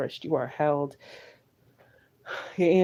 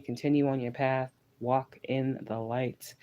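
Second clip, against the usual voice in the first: "walk in the light" slowed and softer, laid down gently; gentle blessing; 3 dB quieter than usual. Real, not acted. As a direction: ease it out softly as a blessing. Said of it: "repeated blessing, softer take".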